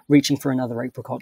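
ordinary delivery

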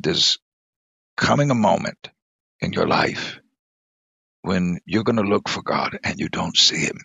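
tearful, hushed fatherly urging; choked tender plea. Retold or imitated. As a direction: hold back tears while reassuring your child. Father urging daughter through tears.

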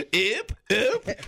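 high mock-French yips; drunk French tourists. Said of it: "forty people, they're drunk, and they're going".

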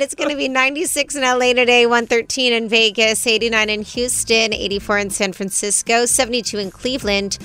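brisk opening, running down the cities; radio weather read. Real, not acted. Host reads listeners the city temperatures, radio weather read. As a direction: rattle off an on-air list, evenly paced.

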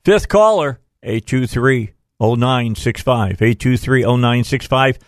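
upbeat giveaway call-out; radio contest promo. Acted. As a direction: announce the contest to callers.

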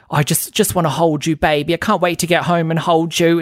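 a hint of a syrupy comforting man; mock tender P K. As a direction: coo at her like a doting husband, lightly. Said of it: "so over the top because he's like".

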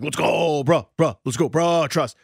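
lightly mimicked schoolboy buddies hyping each other; kids' bro-speak. Dad imitates his son's buddies at school, light kid-speak. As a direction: imitate kids tossing bro slang around. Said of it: "they say bruh a lot to each other".

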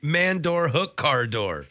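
clumsy mock repeat of the phrase. Shown as a demonstration. Co-host tries the garbled phrase, word by word. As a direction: sound it out word by word. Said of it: "Is that how it is?".

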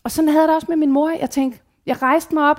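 usual speaking voice

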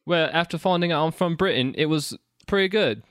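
mock British accent; put-on British accent. Sam tells co-hosts about his week, in a fake British accent. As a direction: play newly British, accent laid on. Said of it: "from Britain with that accent".

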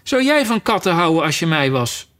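mildly indignant challenge; worked-up little mouse; agitated mouse. Acted. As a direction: throw the question back, offended. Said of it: "schreeuwde de muis met schrille, opgewonden stem".

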